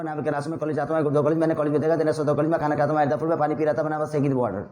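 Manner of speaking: quick drill, no pause for air; fast in one breath. Shown as a demonstration. Teacher demos ten sentences in one breath for students. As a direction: rattle Hindi-English pairs off in one breath. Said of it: "जल्दी जल्दी बोलना भाई".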